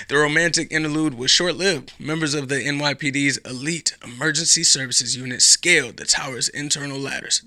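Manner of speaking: a hint of a serious news read; mock news anchor. Sarcastically reading the news report like an anchor. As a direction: read it like an anchor, straight-faced. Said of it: "I know that was sarcasm".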